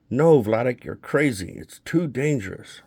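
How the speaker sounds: high, loud cry of no; a frightened wife shutting the plan down; panicked no, then pleading; alarmed refusal. Acted.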